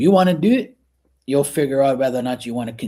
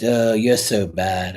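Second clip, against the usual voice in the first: slow, drawn-out retold reproach; mock scolding mom; 3 dB louder, slower than usual. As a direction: lightly imitate a mother chiding her teasing son. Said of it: "And then she goes".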